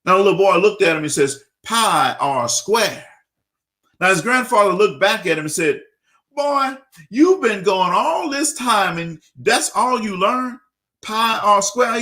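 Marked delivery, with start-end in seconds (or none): 1.6-3.0 slow, drawn-out smug answer; a student showing off to grandpa, slow and smug; smug know-it-all. Retold or imitated. Boy answers grandfather smugly. 6.4-12.0 higher, slow, disbelieving questions; an old man who can't believe what he hears; incredulous grandfather. Retold or imitated.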